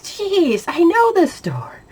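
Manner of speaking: high, slow whisper to herself; frustrated whisper. Retold or imitated. Unable to find the peas, a high frustrated whisper. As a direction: whisper it in disbelief. Lost in familiar store.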